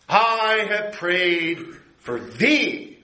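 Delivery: slow, tender, high on "I"; a hint of Christ's voice; Jesus to Peter. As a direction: promise it gently to Peter. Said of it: "Simon Peter".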